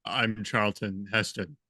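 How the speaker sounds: low, slowed booming mock voice; mock-grand, low self-introduction; Charlton Heston. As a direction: lightly imitate a booming God, drawn out. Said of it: "it's a very booming voice".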